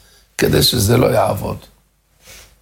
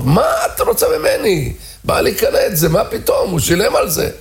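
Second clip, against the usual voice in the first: defensive shouting; 5 semitones higher than usual. Retold or imitated. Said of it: "היה צעקות".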